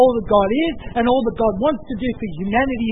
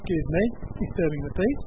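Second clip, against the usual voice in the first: quieter, lower, hushed-down reprimand; mock important people; 4 semitones lower, 6 dB quieter, faster than usual. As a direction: play self-important followers politely shushing a beggar. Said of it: "the important disciples and the important people".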